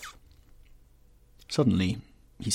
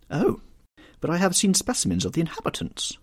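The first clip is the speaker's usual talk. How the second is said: vague grande dame; 8 semitones higher than usual. A narrator's reading. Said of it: "answered the Duchess vaguely".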